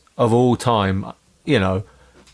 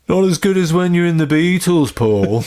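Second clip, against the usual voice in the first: mock heckle; 5 semitones higher than usual. Heckling a singer in Liverpool.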